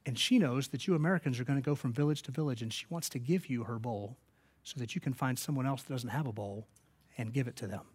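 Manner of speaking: soft, halting, lightly imitated tearful translation; choked-up mutter. Missionary passing on a grateful woman's gift, softly choked up. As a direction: barely get the words out, gently. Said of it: "he could barely mutter out the word".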